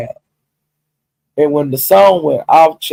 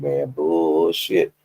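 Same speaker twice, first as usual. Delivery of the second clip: quoted Broadway; 10 semitones lower, 5 dB quieter, much slower than usual. Retold or imitated. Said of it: "Broadway said".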